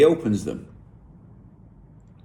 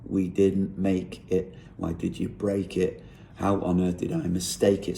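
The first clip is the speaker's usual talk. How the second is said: lyric read out with the stress landing on "make", "break" and "mistake"; measured metrical reading, "make", "break" and "mistake" accented; beat on the fourth syllable. Shown as a demonstration. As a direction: lean on "make", "break", "mistake" as you count out the rhythm. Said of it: "emphasis there falling on four syllables".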